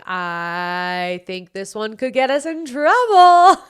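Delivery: playful mock worry. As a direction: stretch it slowly, climbing towards "trouble". Retelling her worry while editing.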